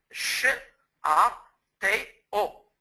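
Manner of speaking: Ch, A, T, O sounded one by one, each alone; isolated phonemes, spoken apart; sounding out phonemes. Shown as a demonstration. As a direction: split château into its four separate sounds. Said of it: "Il contient quatre phonèmes".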